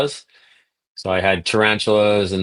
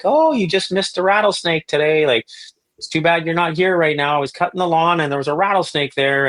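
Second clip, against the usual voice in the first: much higher, lightly voiced chatty grandmother; imitating grandma; 9 semitones higher than usual. Grandma phoning her grandson about a rattlesnake, high grandma voice. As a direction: chirp it like a cheerful old granny.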